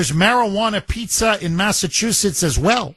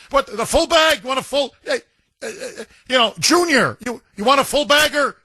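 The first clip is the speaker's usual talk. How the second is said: higher, teasing counter clerk pushing the full bag; mock clerk; 5 semitones higher than usual. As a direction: play the pot shop clerk egging on Junior. Mock clerk upselling at drive-through.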